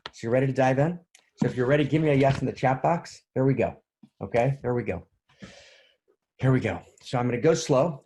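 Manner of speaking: eager host calling for answers; excited call out. Real, not acted. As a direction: pump up the audience. Rousing the chat audience.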